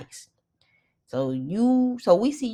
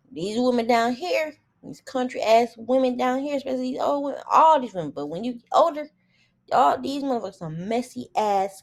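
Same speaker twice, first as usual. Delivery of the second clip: worked-up rant; 8 semitones higher, 4 dB louder than usual. Real, not acted. Heated rant about country women.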